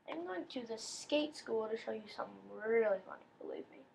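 hushed whisper to viewers; breathy secret aside. Real, not acted. Whispered aside while playing.

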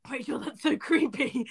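whispered, scandalised aside; mock whisper. Imitating commenters whispering that she is creepy. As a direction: breathe it like a shocked gossip. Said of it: "everyone on mine was being like".

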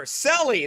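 mock his way of saying "Selly", s at the front; imitating Carl's pronunciation. Teasing Carl from Croatia over his word, "Selly" with an s. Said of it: "that's what he says".

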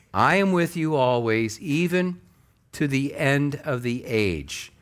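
usual speaking voice

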